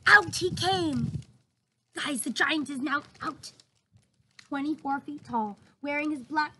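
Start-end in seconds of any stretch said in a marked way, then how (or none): 0.1-1.2 slow, loud gasp then reveal; dramatic reveal. A narrator's reading. Narrator revealing the giant to the children, dramatic gasp. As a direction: gasp and build the moment.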